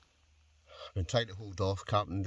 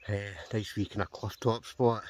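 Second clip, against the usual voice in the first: out of breath; 5 dB louder than usual. Real, not acted. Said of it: "Sorry, I'm out of breath already".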